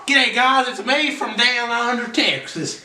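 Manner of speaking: put-on jokey Aussie accent for a channel greeting; mock Aussie accent. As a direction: greet the viewers like a fake Australian. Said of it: "the Aussie accent".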